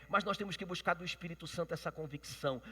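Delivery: loud, high, fervent sermon; full-force preaching. Acted. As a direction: preach it out to the whole church.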